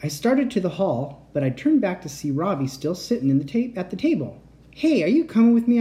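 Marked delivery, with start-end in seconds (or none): 4.7-5.8 high, loud call. Acted. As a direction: call after him across the room. Calling out to Robbie.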